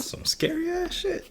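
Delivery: a high, breathless whisper of mock dread; whispered horror. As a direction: whisper it like a creepy secret. Repeats the reaction as a whisper.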